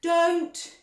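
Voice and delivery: sharp high warning; urgent cry. A narrator's reading. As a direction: call out to stop her. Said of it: "said Mister Wonka".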